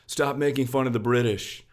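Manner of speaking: mock British accent. Streamer mimicking viewers' complaints, mock British accent. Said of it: "D Ms being like".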